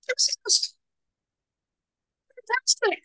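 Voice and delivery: sarcastic cheer at the horror; ironic. Real, not acted. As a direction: teller mocking her own ghost sighting, ironic. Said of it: "ironic punchline".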